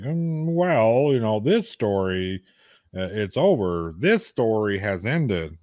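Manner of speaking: slow, drawn-out hedging; imitating someone dodging the question; roundabout answer. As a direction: stall with a drawn-out, evasive reply. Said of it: "she has a roundabout answer".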